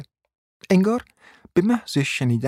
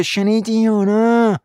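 much higher, louder, slow demanding shout; angry demand; 11 semitones higher, 6 dB louder, slower than usual. A narrator's reading. Wife demanding a straight answer from husband, loud slow shout. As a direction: bark the demand.

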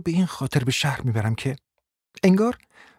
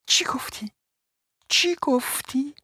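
much higher, drawn-out indignant what; outraged disbelief; 3 dB quieter, slower than usual. A narrator's reading. Wife outraged that husband dares to ask, high indignant disbelief. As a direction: screech it in disbelief.

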